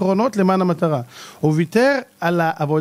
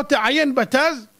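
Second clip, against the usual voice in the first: put-on girl relaying instruction; 5 semitones higher, slower than usual.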